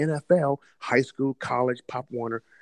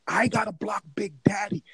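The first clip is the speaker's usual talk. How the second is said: higher-pitched mock dismay; raised, incredulous retelling; retold disbelief; 7 semitones higher than usual. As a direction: replay your alarmed reaction to the matchup. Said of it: "I'm like".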